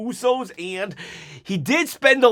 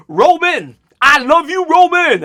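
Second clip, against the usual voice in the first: loud, higher menacing declaration, dragged out; 9 semitones higher, 9 dB louder than usual. Retold or imitated. Jacob turning on Roman, menacing and loud. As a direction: snarl the love at him like a threat. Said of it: "get all menacing".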